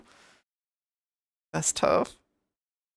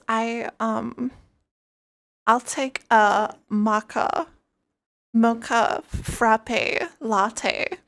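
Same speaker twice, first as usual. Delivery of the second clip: put-on high, slow, airy California girl accent; Cali girl accent; 4 semitones higher, much slower than usual. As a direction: order coffee like a California valley girl. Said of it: "Cali girl type accent".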